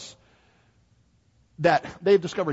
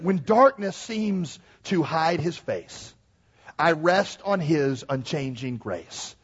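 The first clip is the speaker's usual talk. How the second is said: hymn recitation; slower than usual. Acted. Preacher quotes the hymn writer, solemn recitation.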